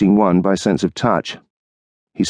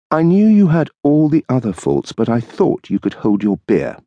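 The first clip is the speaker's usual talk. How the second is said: higher, lightly voiced wife, mocking; wife's voice; 6 semitones higher than usual. Wife teasing husband about drinking, lightly mocking. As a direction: tease him about his beer.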